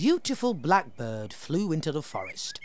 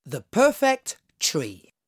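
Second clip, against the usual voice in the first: slow announced title; title announcement; 4 dB louder than usual. A narrator's reading. Announcing the story title to children, slow. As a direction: present the title slowly. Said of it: "The story's called".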